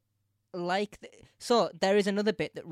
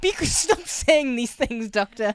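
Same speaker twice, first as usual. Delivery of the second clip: higher, louder mock rant; mock angry; 9 semitones higher, 11 dB louder, slower than usual. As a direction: scold the Doctor, half joking. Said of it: "I was really angry".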